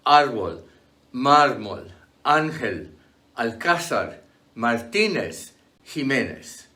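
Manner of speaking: árbol, mármol, ángel stressed on the first syllable, Jiménez on the middle; stress on accented syllable. Shown as a demonstration. Teacher giving exceptions like árbol, stressed on the accented syllable. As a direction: punch the accented vowel in árbol, alcázar, Martínez. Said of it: "mark on the syllable that is stressed".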